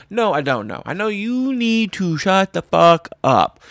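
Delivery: loud furious yell. Retold or imitated. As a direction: blast him to shut up. Telling PETA guy off.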